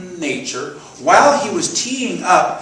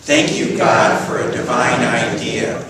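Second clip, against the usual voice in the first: firm, louder unison affirmation; group recitation; 3 semitones lower, 4 dB louder, slower than usual. Shown as a demonstration. Speaker leading the congregation in her affirmation, group recitation. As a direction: lead everyone through it together.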